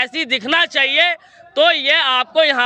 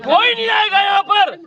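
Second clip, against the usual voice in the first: higher-pitched, impassioned challenge; heated protest; 4 semitones higher than usual. Real, not acted. Student challenging an official over saving the university, heated. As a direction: argue it out, voice raised in pitch.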